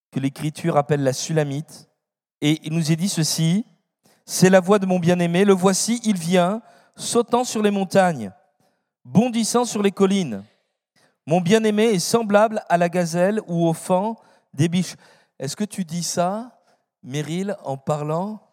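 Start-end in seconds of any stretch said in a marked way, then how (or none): 4.3-15.0 scripture reading. Acted. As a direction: read it out like a lesson in church. Reads Song of Songs aloud.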